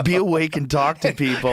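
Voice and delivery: laughing through the words. Real, not acted. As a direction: say it while cracking up. Laughing while mocking own job.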